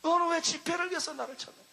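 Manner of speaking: firmer, near-plain repeat of the divine question; voice of the Lord. Retold or imitated. The Lord repeats the question to the preacher, firmer. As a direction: ask it again, steadier and falling. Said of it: "주님이 나에게 말씀했어요".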